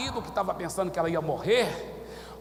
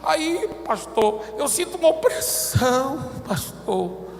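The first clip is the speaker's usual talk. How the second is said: mock whining believer, high; hammed-up complaint to the pastor; whiny complainer; 7 semitones higher, 3 dB louder, slower than usual. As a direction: imitate a whining church member.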